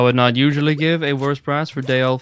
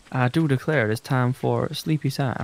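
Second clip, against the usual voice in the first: put-on southern accent; 4 dB quieter than usual. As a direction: declare it like a mock Southern gent. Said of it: "What, my southern accent?".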